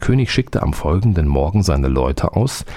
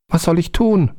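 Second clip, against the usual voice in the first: much higher little-spirit voice; little black man; 13 semitones higher than usual. A narrator's reading. Little man reports to the soldier, much higher. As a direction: report back like an eager tiny servant. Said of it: "fragte der Kleine".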